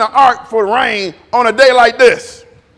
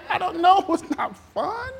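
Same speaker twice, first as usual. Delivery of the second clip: soft, hesitant, higher and unsure; doubtful; 8 semitones higher, 6 dB quieter than usual. Retold or imitated. Answering the excited riders, quiet doubt. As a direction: hedge with a quiet laugh. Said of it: "And I'm like".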